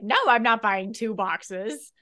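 slow, lightly voiced mom; a hint of a firm mom. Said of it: "your mom's like".

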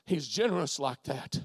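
low, soft refrain; hushed assurance. Real, not acted. Preacher assuring Lindsay of God's generosity, hushed and low. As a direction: let it sink in, low and soft. Refrain repeated softly to listener.

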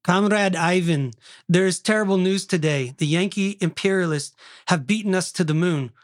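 hammy Russian comrade reporting bad news; Russian accent. Reading Boris's dialogue to comrade Ivan, Russian accent. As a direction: declaim it in a put-on Russian accent. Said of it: "Did you do a good Russian accent".

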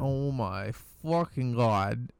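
savoring it, slow and emphatic; raving. Real, not acted. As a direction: gush about how good it was. Raving about a sandwich.

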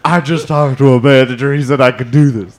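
demanding customer voice; pushy customer voice, hint of anger; angry soccer mom voice. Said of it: "That was your angry soccer mom voice".

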